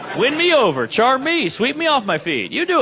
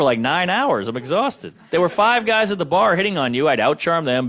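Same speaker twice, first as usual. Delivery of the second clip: ordinary talk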